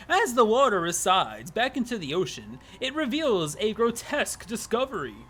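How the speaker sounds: ominous storybook narrator; lightly voiced ominous narrator. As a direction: build dread like a game narrator. Narrator reveals the discovery.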